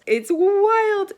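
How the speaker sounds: loud, high burst of amazement; excited exclaim. Real, not acted. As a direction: blurt it out, thrilled. Marvelling at the prologue.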